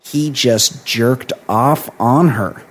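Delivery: slow, offhand reply; nonchalant. Acted. Friend of a friend casually answering a question about a tryst, nonchalant. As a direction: read it out unhurried, as if it were nothing. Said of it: "She nonchalantly replies".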